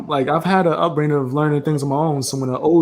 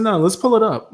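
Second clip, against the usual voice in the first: clear, raised repeat; repeated clearly; 6 semitones higher than usual. Real, not acted. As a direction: say it again so she hears. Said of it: "I said".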